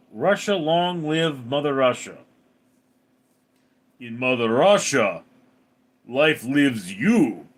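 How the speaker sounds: put-on Russian comic voice; Russian accent. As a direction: deliver it as a mock-patriotic Russian. Russian bit resumed for Mother Russia.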